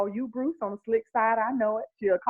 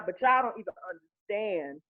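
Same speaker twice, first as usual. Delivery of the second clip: blubbering; 3 dB quieter than usual. Real, not acted. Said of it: "I'm crying right now".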